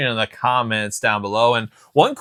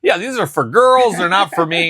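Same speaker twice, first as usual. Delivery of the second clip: snooty dismissal; 5 semitones higher than usual. Retold or imitated. Host voicing his younger self refusing wrestling dolls, snooty dismissal. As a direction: turn your nose up at them, playfully. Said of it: "turn my nose right up".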